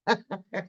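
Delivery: short chuckle; brief, amused little laugh. Real, not acted. Streamer fumbling with the buttons, chuckling.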